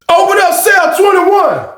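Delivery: high, slow, loud call; mock guard call; called order. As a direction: call it across the pod. Calling out cell order.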